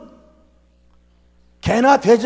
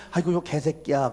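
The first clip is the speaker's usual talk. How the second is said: softly muttered insult, barely voiced; mock cautious quiet curse; very quietly; 7 semitones lower, 7 dB quieter than usual. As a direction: say it small so nobody hears. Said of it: "아주 작게 얘기해".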